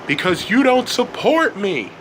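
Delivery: high, accusing anger; angry voice. A narrator's reading. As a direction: throw the blame back at them. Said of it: "in an angry voice".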